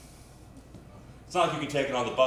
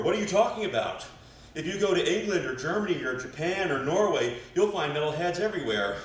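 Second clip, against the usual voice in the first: lightly voiced indignant retort, a bit higher; indignant metalhead girlfriend; 3 semitones higher than usual. Metalhead ex defending her music, mildly indignant. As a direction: argue back with swooping emphasis.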